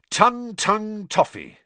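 bright, high-pitched and drawn out. A narrator's reading. Fred proudly naming the joke sweet to Harry, brightly. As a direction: announce it brightly, loud and slow. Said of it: "said Fred brightly".

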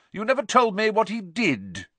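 Aunt Marge voice. Acted. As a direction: boom it out like a pompous aunt.

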